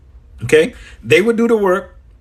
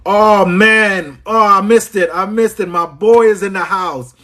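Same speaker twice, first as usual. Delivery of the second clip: higher, delighted shout-out; excited greeting; 5 semitones higher, 3 dB louder than usual. Real, not acted. Host spotting his boy in the house, excited. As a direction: greet a friend you nearly missed, pitched up. Spots a friend in the livestream.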